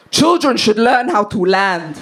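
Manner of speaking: slow, firm mock shout; retold shout back. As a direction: call it back slowly, imitating an unbothered dad. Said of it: "just turned around and shouted back".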